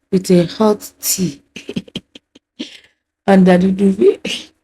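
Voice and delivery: chuckling between the words; amused, giggly asides broken by laughter; laughing. Real, not acted. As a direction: let real laughs break up the phrases. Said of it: "I'm laughing because".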